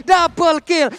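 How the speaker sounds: shouted kill call; fighting game announcer. Real, not acted. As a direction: bellow the double kill. Caster calls the kill. (teriakan double kill)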